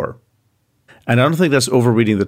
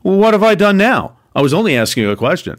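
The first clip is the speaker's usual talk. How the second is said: indignant little brother; 9 semitones higher, faster than usual. Retold or imitated. David retorts to his older brother Eliab, high indignant whine. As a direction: play innocent, offended and wounded.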